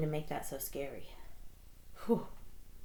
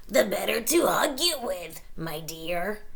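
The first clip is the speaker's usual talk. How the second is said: whispered growl; 4 dB louder than usual. Acted. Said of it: "growled the wolf".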